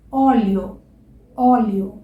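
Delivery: óleo with an open ó. Shown as a demonstration. Teacher modelling the open ó in óleo. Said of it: "a gente tem o".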